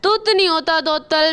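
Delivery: lisped, "अथा दो तल" for "अच्छा तो सर"; lisping crow. Acted. Kalu crow to the doctor, lisping after the surgery. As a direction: say "थाता" with a childlike lisp. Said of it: "आप तो तोतले हो गए हैं।".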